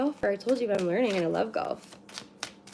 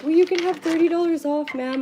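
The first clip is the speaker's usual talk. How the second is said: airline agent voice; 9 semitones higher, 6 dB louder than usual. Retold or imitated. Airline staff quoted in story.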